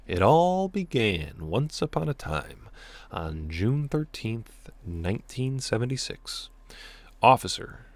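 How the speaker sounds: measured, deliberate storyteller opening; drawn-out once-upon-a-time narration; story narration. A narrator's reading. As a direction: read it out like the start of a tale. Reads the story aloud.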